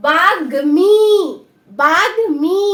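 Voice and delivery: বাগ্মি said clearly as "bagmi", with the m sounded after g; pronunciation demo. Shown as a demonstration. Teacher to students, modelling বাগ্মি slowly and loudly. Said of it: "তাহলে উচ্চারণটা কি হলো".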